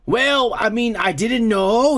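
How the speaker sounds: badly faked British whine, drawn out; attempted British accent. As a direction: try and fail at sounding British. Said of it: "I cannot do a British voice".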